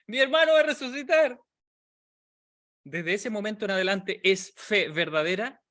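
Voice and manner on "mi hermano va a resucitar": aguda y eufórica, celebrando; anúncialo con gozo desbordado; Marta jubilosa. Retold or imitated. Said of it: "regocijarse y saltar en una pata". (Marta celebra feliz la promesa de Jesús)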